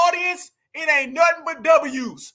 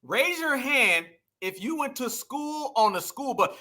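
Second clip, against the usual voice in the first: slow, softer mimicry; mocking echo; 5 dB quieter than usual. Vlogger echoing the candidate's clip, slow mild mimicry. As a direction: repeat it slowly in light mockery.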